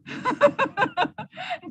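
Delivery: high burst of laughter; helpless high-pitched laugh; real laughter. Real, not acted. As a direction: burst out giggling. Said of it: "Ah, Kak Miza ketawa".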